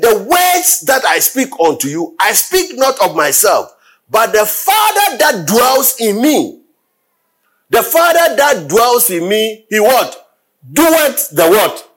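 fervent shouted proclamation; preaching at full force. Acted. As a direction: build the verse to a pulpit climax.

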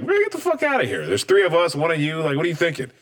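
high, exasperated scoff; eye-rolling dismissal. Retold or imitated. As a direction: brush him off as not worth the bother. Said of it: "roll my eyes like".

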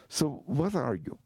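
a hint of a probing old monk, drawn out; mild mock monk sizing up the writer; monk questioning.

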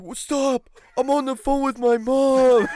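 high, slow hammed-up drunk whine, laughing through it; a friend mimics a drunk buddy insisting he's on the phone, loud and laughing; mock drunk protest. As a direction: play the drunk friend shouting back, half laughing.

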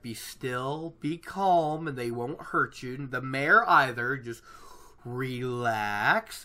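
lightly voiced calming reassurance; Elias. Elias soothing nervous travellers, lightly acted calm. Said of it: "Elias is just like".

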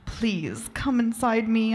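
beg, lifting the pitch; understated pleading; begging. Acted. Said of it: "I begged".

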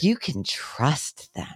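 slow, sugary mock reassurance; drawn-out fake comfort; sarcastic.

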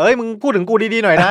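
mock shout. Teasing a teammate mid-interview, mock shouting. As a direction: call it out from behind the camera, half joking. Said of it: "ตะโกนมาบอกว่า".

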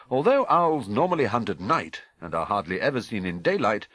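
brisk newsreader delivery; crisp broadcast news voice; news read. Acted. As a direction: read it like the evening news bulletin. Narrator reads the TV news.

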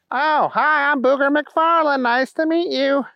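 put-on a childlike hero mourning his spilled treasure; Booger's wail. Booger's voice in story.

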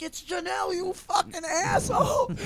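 high-pitched exasperated retort; mock angry. Correcting a drunk friend during a phone call, mock angry. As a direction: imitate yourself cursing out a drunk friend.

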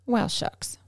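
hushed disappointed whisper. Real, not acted. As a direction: breathe it out under the voice. Disappointed aside to partner.

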